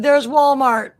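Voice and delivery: high, loud goofy voice; silly quote voice. Retold or imitated. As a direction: read it out like a cartoon. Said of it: "He said".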